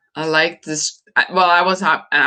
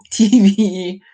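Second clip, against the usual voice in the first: laughing; 5 dB louder than usual. Real, not acted. Laughing at own phrase.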